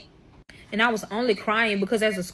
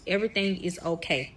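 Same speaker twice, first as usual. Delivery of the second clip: soothing; faster than usual. Retold or imitated. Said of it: "The only thing that I said to calm him down is".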